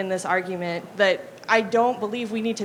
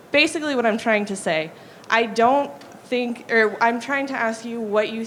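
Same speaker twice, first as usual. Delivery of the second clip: louder, into the mic; speaking up; 5 dB louder than usual. Real, not acted. Questioner restates after being asked to use the mic, louder. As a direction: project the words more strongly. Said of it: "speak more into the mic".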